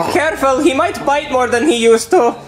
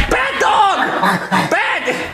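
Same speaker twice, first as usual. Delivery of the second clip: scolding the dog; much slower than usual. Acted. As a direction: snap at the dog. Scolding dog over ruined things.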